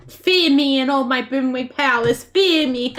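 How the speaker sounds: playful, hammed-up power trip; mock villain gloating. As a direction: gloat loudly, like a mock tyrant. Gloating after wrecking opponents.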